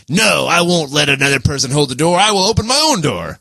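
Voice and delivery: mock-stubborn lone wolf, rising in pitch at the end; mock defiance. Host imitating someone who refuses held doors, mock defiance.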